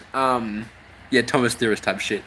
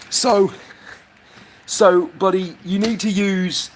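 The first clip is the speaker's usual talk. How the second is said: mock advert; 4 semitones higher than usual.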